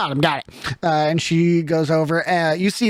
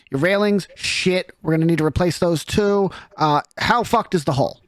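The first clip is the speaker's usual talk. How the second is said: a hint of a blunt, fast-talking carpenter, lightly raised; brisk foul-mouthed craftswoman; 3 semitones higher, faster than usual. Genasi craftswoman sizing up the burned ship, brisk and blunt. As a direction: rattle off the repair plan like a no-nonsense foreman.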